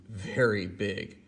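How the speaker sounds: very big drawn out slowly; slow emphasis. A narrator's reading. Reading to a child, slowly stressing "very big". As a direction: stretch out "very big".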